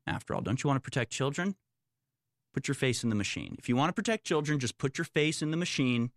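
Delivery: mock the authorities, coaxing and sarcastic; mocking sarcasm. Mocking the authorities' child-safety pitch.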